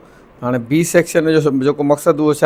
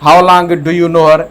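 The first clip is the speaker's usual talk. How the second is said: slow dictation; 4 dB louder, much slower than usual. Shown as a demonstration. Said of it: "ايئن نه ٿيندو چئي ٿو".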